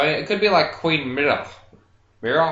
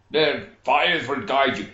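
put-on old grandfather voice. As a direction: intone it like a wise elder. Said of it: "my superstitious grandfather".

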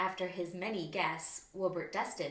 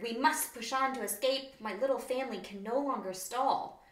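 urgent; 4 semitones higher, 4 dB louder than usual. Acted. Wallaby fleeing fire.

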